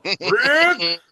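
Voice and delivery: a high, loud call of the name; imitating a desperate yell for a friend; mock yell. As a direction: shout "Rick!" across a field, hammed up. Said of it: "he would yell, "Rick!".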